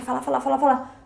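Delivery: rapid-fire repetition of "falar"; tagarela nervoso. Acted. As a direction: rattle "falar" over and over without a break. Mimics nervous nonstop talker. (falando sem parar, de nervoso)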